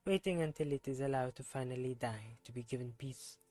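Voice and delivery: put-on reading the character's lines in a self-admitted terrible French accent. Streamer voicing a game character, bad French accent. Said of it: "my terrible French accent".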